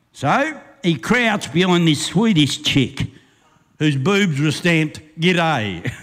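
rhythmic storyteller reading a ballad; bush poem recitation. Acted. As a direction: roll the verse out like a campfire yarn.

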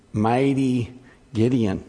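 slow, mocking emphasis on "Mighty"; ironic air quotes. Shown as a demonstration. Pastor mocking Gideon's title in slow sarcastic air quotes. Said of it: "Emphasis on the air quotes".

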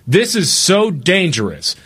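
high, slow worried mom voice; mock scolding mother, drawn out; alarmed mom scolding her son; imitating mom. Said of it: "she goes".

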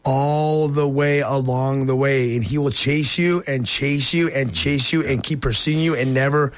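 slow, deliberate sermon delivery; preaching. Real, not acted. Host closing the show with the story's lesson, slow measured preaching. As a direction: draw out each phrase like a preacher.

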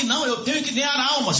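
high, urgent retold plea; preacher voicing someone's late regret; acted desperate realisation. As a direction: re-enact a last-minute cry. Dying woman's last-minute realisation retold.

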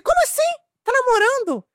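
high, incredulous outburst, retold; shocked indignation. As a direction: replay the shock of hearing the news. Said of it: "eu tava ofendidíssima".

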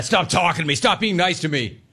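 high, exasperated grumbling; mock-annoyed customer complaint; grumpy. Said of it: "I love that, man".

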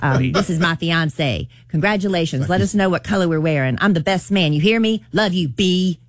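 a hint of a laid-back rapper voice; lightly imitating a famous rapper; famous rapper voice. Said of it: "That was a good rapper impression".

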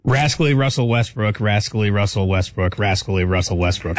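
"Rascally Russell Westbrook" three times, falling; tongue twister on request. Shown as a demonstration. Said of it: "will you do me the honor".

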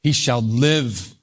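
LIVE slow and drawn out, falling; stress on LIVE. Shown as a demonstration. Preacher pointing the congregation to the key word, stress on LIVE. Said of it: "Emphasis on the word".

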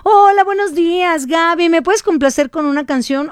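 imitated listener. Host mimicking a listener asking for a song, lightly put-on voice. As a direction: imitate a chirpy caller asking a favor.

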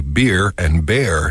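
"beer" with ee, "bear" with eh; northern distinction. Shown as a demonstration. Showing how people up north say it, distinct beer and bear. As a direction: keep beer and bear clearly apart.

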